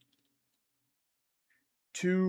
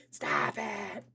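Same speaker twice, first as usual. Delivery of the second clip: much lower mock voice; deep voice; 13 semitones lower, 4 dB quieter than usual. Streamer answering chat in a mock deep voice. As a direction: drop way down for a silly deep stop it.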